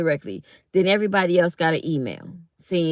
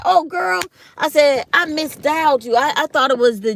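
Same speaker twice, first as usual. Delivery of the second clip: bright friendly greeting; 6 semitones higher, 5 dB louder than usual. Retold or imitated.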